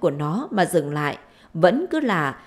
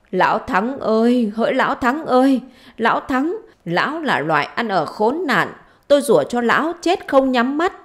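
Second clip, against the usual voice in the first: wailing curse; 4 semitones higher, 3 dB louder than usual. Acted. Wife cursing her husband and his household, wailing curse. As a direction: chant the curses out, pitch swinging high.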